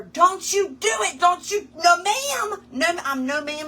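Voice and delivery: high, slow scolding; retold yelling. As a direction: draw out a stern telling-off to a pet. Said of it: "And I'm yelling at her".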